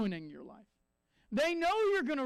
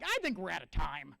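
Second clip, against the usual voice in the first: evasive client. Retold or imitated. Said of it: "they're like".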